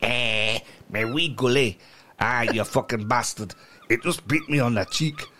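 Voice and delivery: dubious put-on Scottish accent. Shown as a demonstration. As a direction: try a Scottish voice, not very convincingly. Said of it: "It's Scottish".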